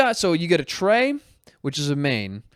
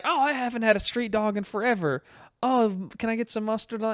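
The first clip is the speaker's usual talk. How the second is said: higher-pitched put-on woman's voice; date; 7 semitones higher than usual. Woman at a hot dog stand, put-on date voice. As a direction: voice the date, lightly raised in pitch. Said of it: "and she's like".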